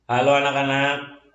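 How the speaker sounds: choppy, breaking-up online voice; words cutting in and out; glitching robot. Real, not acted. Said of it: "Suaranya patah-patah".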